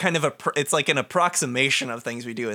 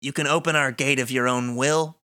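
deliberate, theatrical villain threat; the darkness. Acted. Darkness threatening heroes who refuse to open the gate, deliberate menace. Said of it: "I can be the darkness".

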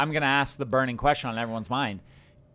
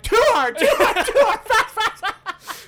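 much higher, louder sex robot voice; 6 dB louder, slower than usual. Pretend. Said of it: "his robot voice again".

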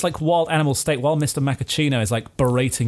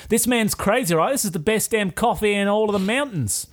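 higher, insistent protest; indignant owner; 7 semitones higher than usual. Acted. Café owner defending his coffee to the inspector, higher protest. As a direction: plead his case to the inspector.

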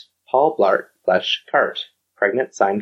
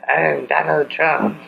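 Donald Trump; 5 semitones higher, slower than usual. Acted. Echoes the co-host's Trump impression.

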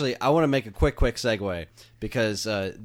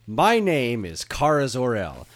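slow, solemn superhero opening line; imitating show intro; 2 semitones higher, 4 dB louder, slower than usual. Mocking the show's opening line for his cohosts, in a slow solemn intro voice. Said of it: "spot on on their intonation".

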